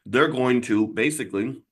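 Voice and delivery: talking round something in mouth; words muffled by food; mouth full. Real, not acted. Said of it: "I have something in my mouth".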